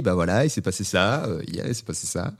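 lightly imitated neutral presenter, low; neutral reporter. Man imitating Rachid Arabe reporting what happened, neutral and low. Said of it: "C'est un Arabe neutre qui dit".

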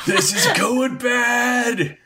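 high shrieking panic; panicked shout. Acted. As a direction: scream it in terror. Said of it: "Jarper two goes".

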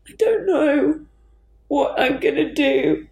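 choking up, barely getting the words out; real crying. Real, not acted. Grieving on a podcast, to the host, voice breaking with tears. Breaks down over lost bandmates.

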